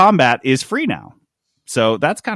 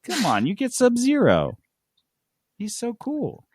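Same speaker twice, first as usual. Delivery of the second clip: mock salesman; 7 semitones higher than usual. Sales pitch parody.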